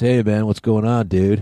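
easygoing, laid-back valley surfer dude voice. Describing how a character talks, the speaker imitates him: surfer dude voice. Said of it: "he talks like that".

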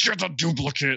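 yelled put-on masked-vigilante superhero voice. Recapping a TV scene, quoting the undersecretary yelling, in a Christian Bale Batman voice. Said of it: "he's doing a Christian Bale Batman impersonation".

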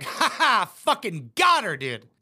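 acted smug, gloating man's laugh. Acting out how a man laughed, imitating his laugh. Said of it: "He laughed like that because he's like".

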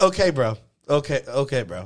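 put-on casual tone. Imitating what he says to a nonchalant person, mock-nonchalant. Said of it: "I love the nonchalantness".

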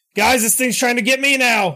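very high-pitched yelling. Playing a character yanked by vines, calling to the group: yelling for help. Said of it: "yelling as I'm, like, holding onto this sword".

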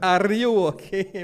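very loud, high, horrible fake Russian accent. Retelling how he always asks Marcos if he's okay: horrible fake Russian accent. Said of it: "Mais ou menos assim".

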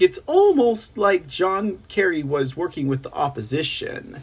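ordinary delivery

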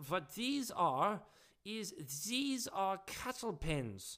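put-on Dutch or German accent. Explaining the pens, the speaker talks in a put-on Dutch or German accent. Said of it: "I'm not sure if I'm doing a Dutch or a German accent".

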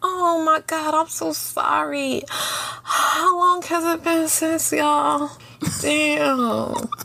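very slow, drawn-out put-on sympathy. Acting out how a friend should respond to bad news: fake concern. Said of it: "putting on your concerned eyebrows".

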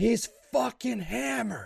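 very high, shrill, raw, rough scream. Retelling a parents' fight, acting out the speaker's mom screaming at dad. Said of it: "she's screaming things along the lines of".

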